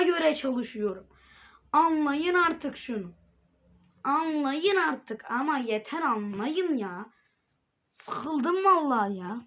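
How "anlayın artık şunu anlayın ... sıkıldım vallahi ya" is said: 1 exasperated. Real, not acted. Exasperated plea to viewers.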